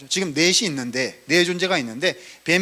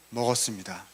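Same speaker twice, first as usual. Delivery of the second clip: lower, softer acted admission; meek confession; 6 semitones lower, 7 dB quieter than usual. Sinner admitting eating the fruit to God, meek confession. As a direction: drop low and soft to confess.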